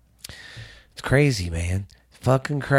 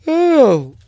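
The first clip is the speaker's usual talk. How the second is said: stretching groan; 12 semitones higher, 6 dB louder than usual. Real, not acted. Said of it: "I was stretching".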